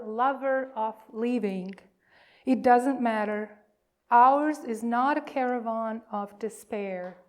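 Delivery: reading Rumi's poem aloud, measured. Acted. Minister reads Rumi's poem to the congregation, measured and reverent. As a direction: let the lines breathe like a poem. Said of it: "wrote these words".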